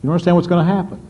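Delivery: knowing smile in the voice, lightly voiced; fond chuckling reassurance, understated; smiling amused God. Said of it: "I can almost see God smiling, saying".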